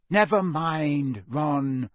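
loud, drawn-out plea; urgent restraint. Acted. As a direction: hold him back with your voice. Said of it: "said Hermione quickly".

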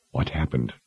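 low, quiet and menacing. A narrator's reading. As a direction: ask it quietly, with threat underneath. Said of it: "he asked in a quiet voice".

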